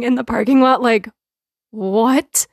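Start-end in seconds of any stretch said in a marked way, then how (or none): 1.7-2.5 baffled question that breaks into laughter; laughing disbelief. Retold or imitated. To the worker over the bananas, laughing in disbelief. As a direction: laugh through the words, stunned. Both baffled in parking lot.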